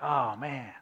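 soft, low mock groan; mock moaning. Pastor mimicking a hungry churchgoer, soft mock moan. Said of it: "like, moaning".

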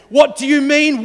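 loud, high, indignant protest; exasperated outburst. Acted. Mary snapping at the angels, loud and indignant. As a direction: fire it back at them, fed up. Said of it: "imagined herself knocking them out".

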